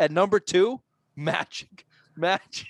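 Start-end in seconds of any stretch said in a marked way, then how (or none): 1.1-2.7 suppressing laughter, trying not to laugh. Naming the number two game on a list, trying not to laugh. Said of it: "You can't even say it with a straight face".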